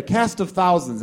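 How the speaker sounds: mock TV announcer proclamation; show announcer quote. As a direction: announce it slowly and grandly. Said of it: "where he used to say".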